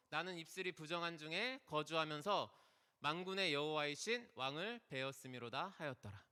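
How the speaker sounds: solemn reading of Isaiah's lament; scripture reading. Acted. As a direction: read the verse out like scripture. Pastor reads Isaiah aloud.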